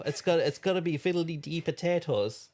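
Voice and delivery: light mock Irish accent on fiddly dee potatoes; a hint of stage Irish. Shown as a demonstration. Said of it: "I can't make it rough".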